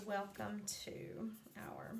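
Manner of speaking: soft unvoiced whisper. Real, not acted. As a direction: whisper the words as you write. Whispering words while writing.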